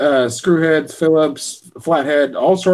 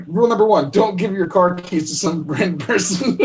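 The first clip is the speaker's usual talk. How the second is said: higher, quoting the punchline while laughing; laughing through a quote; 4 semitones higher than usual. Retold or imitated. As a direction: deliver the movie's punchline, cracking up. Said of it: "And he's like".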